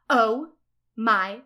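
slow build to a loud squeal; screamed excitement. Acted. Ebony hears about the concert, a drawn-out mock scream. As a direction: stretch each word, then burst out loud. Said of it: "I screamed".

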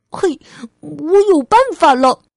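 high, loud burst of inspiration; little girl's eager exclamation; excited child. Acted. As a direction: pipe up with a bright idea. Child suddenly has an idea.

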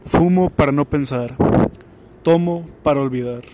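solemn recitation. Shown as a demonstration. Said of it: "mi frase célebre".

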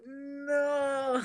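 high, crying-style "no" dissolving into laughter; mock wail. Co-host hearing about the bad shirt, mock wailing. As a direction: wail as if pained, all in fun.

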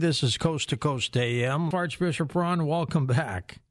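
smooth late-night radio host opening; radio host intro. Acted. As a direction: open the show like a radio announcer.

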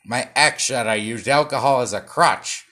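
loud, hammed-up late-night host delivery; brassy, shticky host voice; Johnny Carson voice. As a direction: play it like a vaudeville talk-show host. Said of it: "do this in a Johnny Carson".

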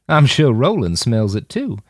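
lightly voiced goading Jim; taunting provocateur. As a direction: needle him with a sneer.

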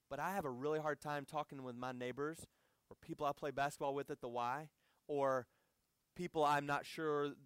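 soft, low, sober self-questioning; heartbroken reflection. Real, not acted. Preacher confessing he struggles to share faith at home, subdued. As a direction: question yourself quietly, with a touch of real sorrow. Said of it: "a realization that breaks my heart".

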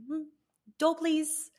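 cheeky, playful. Retold or imitated. Reminding her partner to hold the door, playful and cheeky. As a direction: nudge him playfully about the door. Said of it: "Just cheeky, playful".

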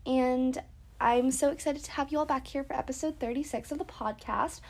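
congested, blocked nose; stuffy nose. Real, not acted. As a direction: talk through a stuffy nose. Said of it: "I sound really congested right now".

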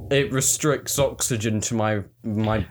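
light Essex accent put on. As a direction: speak in a mild Essex accent. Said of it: "I'm doing an Essex accent".

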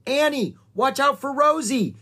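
high, loud cry of warning; warning shout. A narrator's reading. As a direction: shout to alert her to danger. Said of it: "shouted Jack".

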